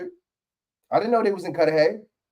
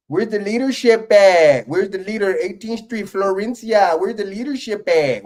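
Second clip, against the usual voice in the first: slow, higher, louder LA cholo drawl; cholo imitation; 5 semitones higher, 5 dB louder, slower than usual. Reactor mocks the councilwoman's cholo way of talking, slow and loud. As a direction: parody her like a street cholo, stretching every word. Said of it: "Why she talk like that? Like she's a fucking cholo".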